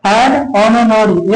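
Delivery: An honorary very slow, honorary as ononori; slow reading. Shown as a demonstration. Teacher slowly modelling an honorary for students. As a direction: draw it out for learners. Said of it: "ठीक है".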